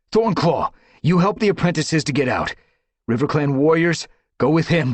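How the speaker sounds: high, loud command. Acted. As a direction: call her back sharply. Firestar gives orders.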